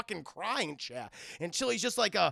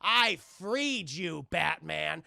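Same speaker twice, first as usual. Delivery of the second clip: slow, drawn-out villain taunt, building louder; gloating villain; 3 dB louder, slower than usual. Retold or imitated. Mad Hatter taunting Batman, slow gloating. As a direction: savor every word like a gloating captor.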